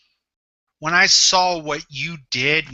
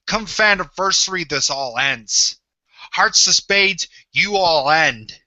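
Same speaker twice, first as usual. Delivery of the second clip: wrestling promo threat. Acted. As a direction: drag it out like a final threat.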